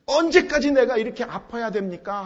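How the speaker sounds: weary question growing into anguished protest; lamenting. Acted. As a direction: lament building to an insistent appeal. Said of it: "하고 탄식하는".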